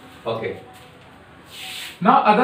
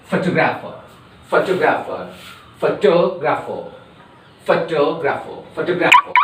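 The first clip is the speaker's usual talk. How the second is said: photographer with the to stressed. Shown as a demonstration. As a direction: drill photographer on the to. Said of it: "there will be stress on to".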